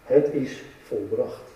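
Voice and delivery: dying Jesus, soft and slow; quiet last words. Acted. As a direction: let it out softly, finished. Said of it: "roept hij".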